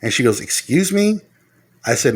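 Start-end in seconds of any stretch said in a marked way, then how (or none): 0.4-1.2 indignant retort. Retold or imitated. Wife's indignant retort imitated.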